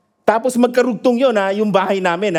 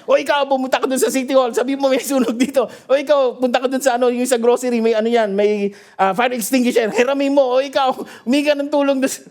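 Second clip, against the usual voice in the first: higher, fast ordering voice; bossy admin; 4 semitones higher, faster than usual. Retold or imitated. Pastor ordering the crowd at the fire, bossy and fast. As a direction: bark orders at the onlookers. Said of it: "Lumabas po yung pagka-admin ko".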